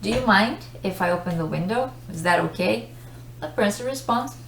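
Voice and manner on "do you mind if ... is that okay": brisk, courteous question; polite request. Shown as a demonstration. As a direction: ask permission politely, quickly and lightly. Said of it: "Just notice the intonation".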